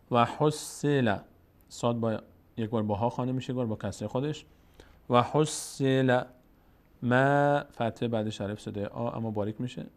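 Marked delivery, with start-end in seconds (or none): 0.1-1.2 slow, drawn-out chanted Arabic recitation; slow Quran recitation. Shown as a demonstration. Teacher slowly reciting the verse for the student, chanted. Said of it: "teacher recites". 5.1-7.6 slow, drawn-out chanted Arabic recitation; slow Quran recitation. Shown as a demonstration. Teacher slowly reciting the verse for the student, chanted. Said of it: "teacher recites".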